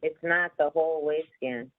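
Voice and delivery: choppy audio breaking up; glitchy, cutting out on the line; glitchy robotic call. Real, not acted. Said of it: "Your audio's breaking up a bit".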